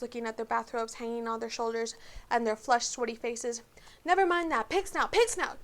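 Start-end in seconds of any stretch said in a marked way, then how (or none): 4.0-5.6 high, urgent panting; winded and desperate to get in. A narrator's reading. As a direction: blurt the password breathlessly, pitch climbing. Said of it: "panted Harry".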